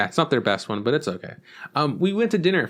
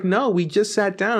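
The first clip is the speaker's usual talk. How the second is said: higher-pitched, drawn-out mock protest; retold exasperated protest; 7 semitones higher, slower than usual. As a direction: push back incredulously, stretching it out. Retold protest at the pushy waitress.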